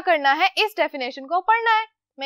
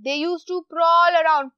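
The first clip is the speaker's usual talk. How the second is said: emphatic reading; much slower than usual. Shown as a demonstration. Teacher stresses example sentence.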